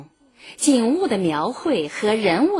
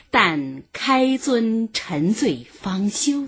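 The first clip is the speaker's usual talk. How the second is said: slow poem quote; 3 semitones higher, slower than usual. Shown as a demonstration.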